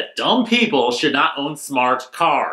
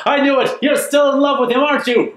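high mock accusation; 9 semitones higher than usual. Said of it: "she storms out".

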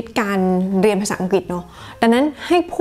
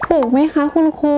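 higher-pitched pupil checking with the teacher; lightly voiced student, asking politely; 6 semitones higher than usual. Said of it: "ถ้านักเรียนถามใช่ไหม". (นักเรียนถามครูด้วยเสียงสูงขึ้น)

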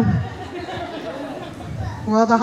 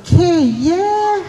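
dog's punchline noise; 3 semitones higher than usual. Acted. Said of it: "he goes".

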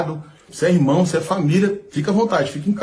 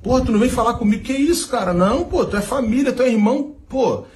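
imitating a singer; 5 semitones higher than usual. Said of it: "ainda veio tipo que".

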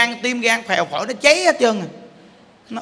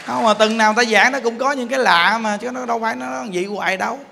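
normal talking voice

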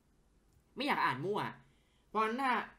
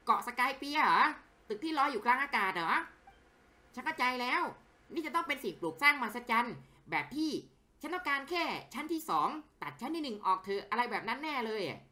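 louder, wide-eyed wonder at a floating building; awed game character; 8 semitones higher, 4 dB louder than usual. Acted. Character marvels at the floating tower, awed. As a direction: gasp at the sight.

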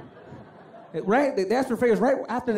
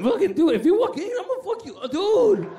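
put-on high, overwrought kid rage; hammed-up tearful tantrum, pitch way up; hyperventilating; 10 semitones higher, 3 dB louder than usual. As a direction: gasp out threats in mock fury. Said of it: "hyperventilating and just".

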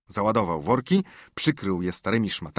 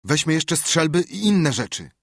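Huck advising, higher and louder; urging friend, pitched up; advising boy; 7 semitones higher, 4 dB louder than usual. Acted. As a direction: suggest it eagerly. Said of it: "doradzał Hak".

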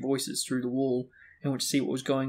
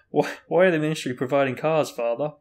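measured, formal question; a touch loud and stately; dignified; 6 dB louder than usual. A narrator's reading. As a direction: ask with composed dignity. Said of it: "asked again in a dignified voice".

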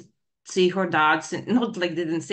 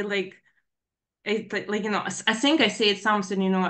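normal talking voice

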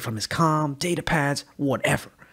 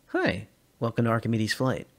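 unconvincingly chipper. Acted. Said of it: "in an unconvincingly chipper tone".

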